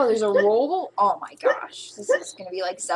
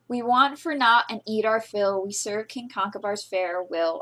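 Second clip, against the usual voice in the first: poetry reading; 7 dB louder than usual. Acted. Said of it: "I wanna read it 'cause it's like poetry".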